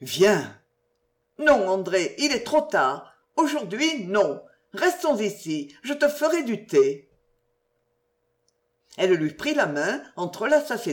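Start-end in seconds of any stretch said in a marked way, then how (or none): 0.0-0.6 low, understated invitation; slightly changed voice. A narrator's reading. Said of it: "d'une voix un peu changée". 1.4-7.1 higher-pitched, gentle refusal; lightly voiced woman lover.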